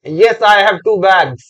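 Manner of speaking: very slow, word by word English; teacher reading each English word slowly; slow dictation. Shown as a demonstration. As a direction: spell the sentence out slowly for the class. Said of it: "एक व्यक्ति ने मुझे ये जवाब दिया".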